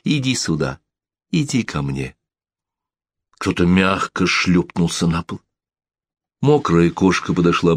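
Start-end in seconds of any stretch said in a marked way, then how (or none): 0.0-2.2 soft, tender coaxing; tender call. Acted. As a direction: gently coax the cat closer. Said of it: "нежный голос Лори".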